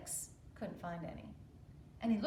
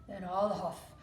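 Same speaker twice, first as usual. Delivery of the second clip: much louder, slow wolf threat; threatening wolf; 3 semitones higher, 13 dB louder, slower than usual. Acted. Wolf threatening the pig's straw house, loud and slow. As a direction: roar the threat slowly. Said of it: "said the wolf".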